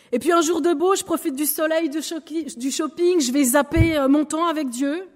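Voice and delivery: carefree shopper skipping prayer time; mock carefree.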